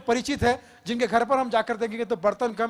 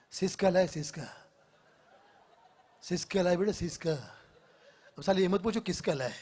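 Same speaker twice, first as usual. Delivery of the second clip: light hint of a cool actor; Irrfan Khan impression; 3 semitones lower than usual. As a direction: murmur it in a lazy knowing tone. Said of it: "इरफान Khan साहब".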